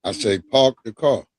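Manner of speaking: "park the car" in his own Long Island accent. Shown as a demonstration. Guest asked to say park the car again, in his Long Island accent. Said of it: "Wait, say it again".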